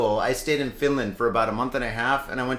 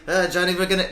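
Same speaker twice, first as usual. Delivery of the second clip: slightly higher, lightly faked Swedish accent; bad Swedish accent; 4 semitones higher, faster than usual. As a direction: attempt a Swedish accent, badly. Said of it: "that's a bad Swedish accent".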